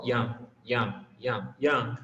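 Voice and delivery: put-on "young" repeated as one short syllable, yung; model pronunciation. Shown as a demonstration. Teacher drills young for class, one syllable. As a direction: drill "young" as a single sound. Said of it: "eles formam um som só".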